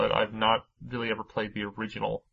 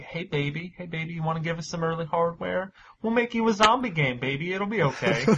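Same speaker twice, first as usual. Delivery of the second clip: higher, sing-song crooning at Nintendo; smooth-talking suitor; 6 semitones higher than usual. Retold or imitated. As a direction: woo Nintendo like a cheesy flirt, pitch up. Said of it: "Ubisoft was just like".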